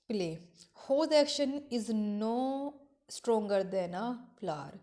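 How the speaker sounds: slow, drawn-out reading of verse; slow poem recitation. Acted. Teacher reciting Shakespeare to her class, slow and deliberate. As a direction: recite each line slowly, savouring it.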